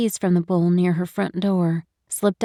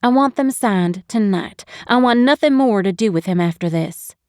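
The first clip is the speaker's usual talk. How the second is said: mildly angry, a little raised; firm insistence; 2 semitones higher, 5 dB louder than usual. Acted. Wife insists on signing divorce papers, firm and mildly angry. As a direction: put your foot down. Insists sharply on ending the marriage.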